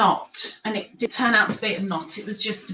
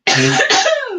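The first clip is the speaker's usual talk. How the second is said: coughing fit; 14 semitones higher, 7 dB louder than usual. Real, not acted.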